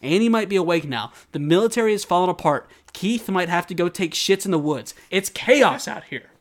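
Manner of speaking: building mock alarm; urgent Armin. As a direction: list the dangers urgently. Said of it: "he says".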